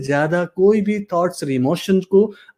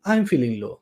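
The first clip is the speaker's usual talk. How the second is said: lower, softer downbeat answer; low-spirited; 5 semitones lower, 5 dB quieter, slower than usual. Shown as a demonstration. Coach modelling a low answer to a self-check, downbeat. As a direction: let pitch and volume sink.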